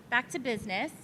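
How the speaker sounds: soft, under-projected, off the mic; too quiet. Real, not acted. Panelist regaining her thread, too quiet to be heard. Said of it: "Mic a little closer, they'll hear you better".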